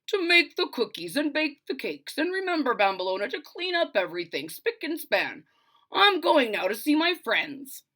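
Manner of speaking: a hint of a bossy father; lightly voiced father. Father leaving chores for Bambolona, lightly bossy. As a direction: rattle off the chores.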